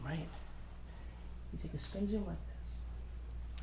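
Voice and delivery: slow mysterious whisper for the trick; stage whisper. Shown as a demonstration. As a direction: draw it out like a magician's secret. Magic trick demo whispered.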